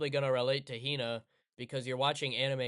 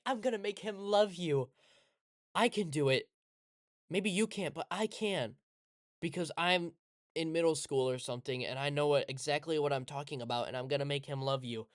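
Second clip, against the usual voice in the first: hyped little friend. Retold or imitated. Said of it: "she's like".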